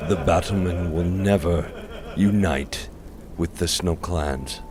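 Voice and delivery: cold voice. Acted. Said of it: "Luther's cold voice".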